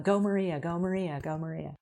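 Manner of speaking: root for her, then let it trail off; cheering. Retold or imitated. Coach cheering Maria on, fading to soft. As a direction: cheer that fades away to almost nothing. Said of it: "I'm like".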